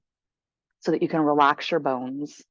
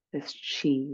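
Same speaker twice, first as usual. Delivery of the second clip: guided meditation. Acted. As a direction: guide them gently into stillness, unhurried.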